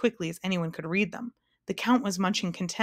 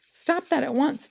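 slow, high-pitched royal outrage; thundered; 7 semitones higher than usual. A narrator's reading. King breaking up a scuffle under the table, thundered. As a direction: thunder a slow, commanding order. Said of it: "thundered Azaz".

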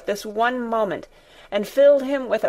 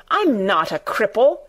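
furious; 3 dB louder than usual. Acted. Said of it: "he cried out furiously".

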